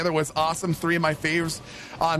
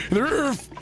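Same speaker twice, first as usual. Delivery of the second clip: much higher goofy character voice; put-on silly voice; 11 semitones higher than usual. Streamer acting a roof mishap for chat, squeaky goofy voice. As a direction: ham it up, a squeaky cartoon voice. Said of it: "put on the voice for it".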